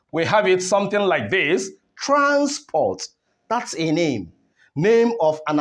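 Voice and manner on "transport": Transport with TRANS held high, then a drop; stress on first syllable. Shown as a demonstration. Teacher showing where stress is, high TRANS in Transport. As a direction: punch the first half of Transport. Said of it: "here on the first syllable".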